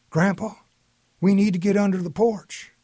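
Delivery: put-on a child begging grandpa for help; pleading child. A narrator's reading.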